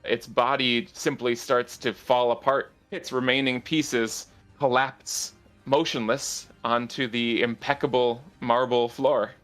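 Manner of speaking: steady scene-setting narration; fantasy narrator describing the collapse; game master narration. A narrator's reading. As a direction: paint the scene for the players.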